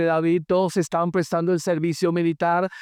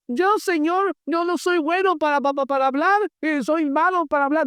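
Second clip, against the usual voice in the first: high, hesitant pleading voice, much higher than usual; Moisés poniendo excusas; 8 semitones higher than usual. Acted. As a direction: stammer out excuses like a timid man begging off. Moisés le pone excusas al Señor. (Moisés suplicando con voz aguda y titubeante)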